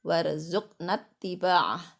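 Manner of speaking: slow, measured chanted supplication; steady devotional chant, easing down at the close; prayer recitation. Real, not acted. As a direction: intone the prayer with lengthened vowels.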